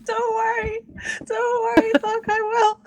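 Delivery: high character voice. Acted. Eleanor reassuring the party.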